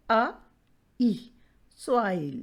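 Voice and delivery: अ, ई apart, then SOIL blended; vowel sounds demonstration. Shown as a demonstration. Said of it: "ओ की sound क्या है". (पहले अ, ई अलग, फिर soil मिलाकर)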